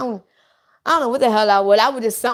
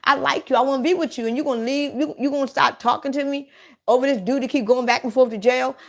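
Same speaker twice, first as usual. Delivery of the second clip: retold attitude; 3 semitones higher, faster than usual. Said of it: "he got an attitude like".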